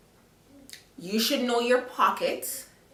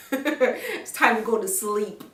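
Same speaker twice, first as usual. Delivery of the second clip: laughing; slower than usual. Real, not acted. Laughing about falling asleep drunk.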